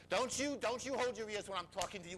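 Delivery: high, insistent acted scolding; scolding mother. Mother to boy holding his ears, high-pitched scolding. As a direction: imitate a mother telling off her child.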